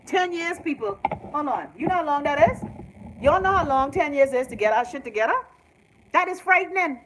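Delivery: alarmed. Real, not acted. Alarmed rant about ten years.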